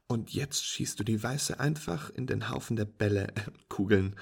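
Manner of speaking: walk a beginner through it brightly; patient instructing friend. Acted.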